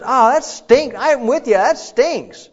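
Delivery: put-on God commiserating with a suffering child, loud and high; God sympathizing. God tells a hurting family, sympathetic and loud. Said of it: "He says".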